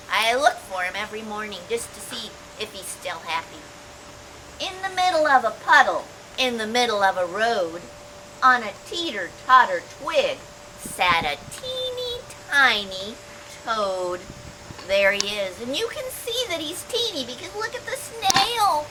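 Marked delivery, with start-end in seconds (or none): 4.6-14.2 sing-song read-aloud storytelling; reading to children. A narrator's reading. Teacher reading a picture book aloud to children, sing-song. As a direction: read it bouncy for little ones.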